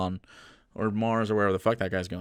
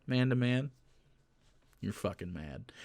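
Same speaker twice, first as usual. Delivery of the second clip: quiet jab; 3 semitones lower, 11 dB quieter than usual. Real, not acted.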